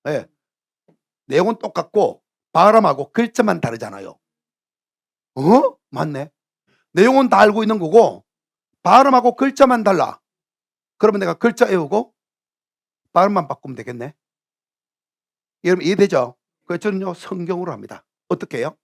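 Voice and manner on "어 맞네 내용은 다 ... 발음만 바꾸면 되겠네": higher, louder retold eureka; sudden realization. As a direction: act out working it out, pleased. Acting out the polyglot's realization.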